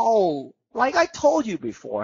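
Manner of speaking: teacher shows how to speak with emotion. Shown as a demonstration. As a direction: sing it out with feeling, rising and falling. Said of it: "พูดให้มีอารมณ์อะ มีสูง เสียงสูง เสียงต่ำ".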